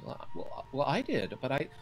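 high, flustered defensive voice; nervous cook. Acted. Cook Fern defends her soup.

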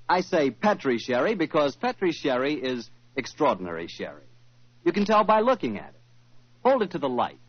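bright announcer selling sherry; old-time radio sponsor read, upbeat. Acted. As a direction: pitch the wine like a sponsor's announcer.

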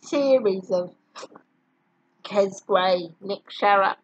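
talking through hiccups; hiccuping between words. Real, not acted. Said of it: "excuse the hiccups".

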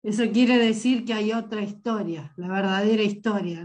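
sick with a cold. Real, not acted. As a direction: voice stuffed up from a cold. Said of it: "estoy muy resfriada".

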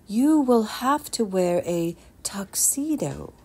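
mother whispering it slowly. Acted. Mother whispers the tuxedo news to her son, slow and hushed. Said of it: "his mother said slowly".

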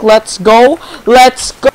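rising victory cheer; excited cheer. Real, not acted. Celebrating win.

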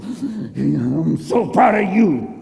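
drawn-out, choked-up pride, played for laughs; mock overcome with emotion; emotional. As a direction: gush it slowly, as if tearing up. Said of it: "Excuse me, I'm emotional".

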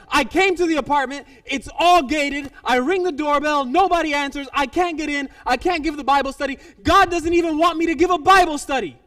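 loud retold rant, building at the end; exasperated complaint. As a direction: act out her frustrated tirade. She complains about the locked gate.

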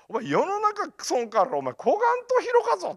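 loud, very high Kumamoto dialect mentor. Retold or imitated. Mentor tells student how wide the world is, loud Kumamoto dialect. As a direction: exclaim it in broad Kumamoto dialect. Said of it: "熊本弁が師匠のセリフみたいな".

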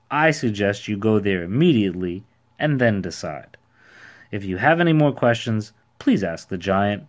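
lightly voiced character, emphatic; self-assured ordinary man, advising. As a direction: lay out the advice with punched key words. Voices the man's baffling advice.

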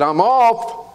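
a high little light-switch voice; talking light switch. Pretend. Preacher voicing the light switch, high and small. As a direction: give the light a tiny voice.

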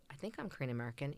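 quick, mildly unsure demo; tentative. Shown as a demonstration. Showing young folks what not to say, mildly tentative. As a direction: say it as if half convinced. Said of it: "Don't be like".

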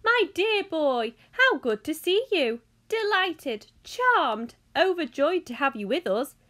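loud, high, effusive greeting; fluty host bubbling over with excitement; excited. A narrator's reading. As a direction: gush a delighted welcome. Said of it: "Mister Wonka was clearly just as excited".

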